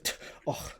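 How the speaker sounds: dismissive tongue click scoff; a quick unvoiced tch of contempt; scornful little tch and oh.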